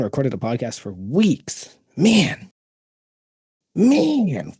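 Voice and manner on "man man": very high squeaky falsetto. Pretend. Playing with voice, very high.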